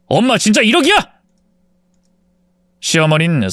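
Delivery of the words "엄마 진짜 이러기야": 화난 아들. A narrator's reading. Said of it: "화를 냈습니다".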